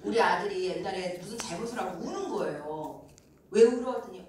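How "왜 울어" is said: ordinary delivery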